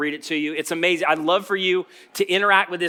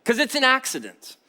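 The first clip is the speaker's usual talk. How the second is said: mock soothing; 4 semitones higher than usual. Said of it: "I'm like".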